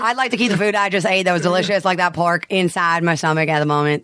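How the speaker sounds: lightly voiced rambling pop star. Pop star dodging a political question, rambling impression. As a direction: ramble as a pop singer, filler-laden. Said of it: "a pop star".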